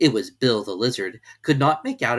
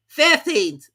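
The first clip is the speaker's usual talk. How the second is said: very high, loud creature voice; a quick hare correcting; March Hare correcting the Hatter; 8 dB louder than usual. A narrator's reading. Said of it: "said the March Hare".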